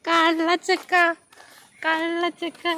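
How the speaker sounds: playful teasing. Real, not acted. Mother calls her child a little rascal, playful teasing.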